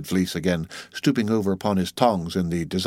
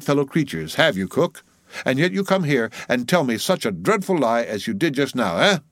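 lightly voiced mate, pitched up; scolding mate; 5 semitones higher than usual. Mate faulting old cook over whale steak, scolding. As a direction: scold with mock amazement.

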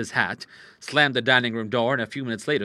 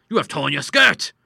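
loud, higher, shocked outburst; astonished cry; 5 semitones higher, 9 dB louder than usual. Acted. Father to daughter about her dress, shocked loud cry. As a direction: exclaim it in dismay. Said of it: "he cried".

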